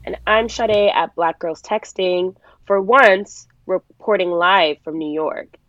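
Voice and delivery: muffled, sick voice with no mic; underwater. Real, not acted. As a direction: sounds like talking underwater. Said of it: "if I sound like I'm underwater".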